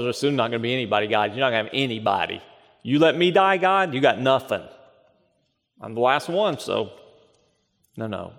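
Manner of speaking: a hint of a desperate prophet, then fading; Elijah's complaint. Voicing Elijah's despairing complaint to God.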